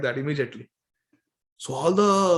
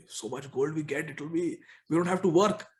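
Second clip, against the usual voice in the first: softer, mock-secret aside; hushed conferring; 2 semitones lower, 6 dB quieter than usual. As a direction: confer under your breath about a windfall. Brahmins confer among themselves.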